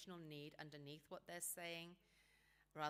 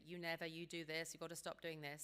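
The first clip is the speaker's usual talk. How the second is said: mock accusation. Shown as a demonstration. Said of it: "Don't say".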